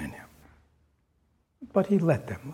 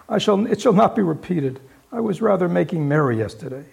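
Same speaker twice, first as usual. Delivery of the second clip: pleading Bob; 2 semitones higher, 5 dB louder than usual. Acted. Bob pleading with his boss, anxious. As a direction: promise it won't happen again. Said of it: "pleaded Bob".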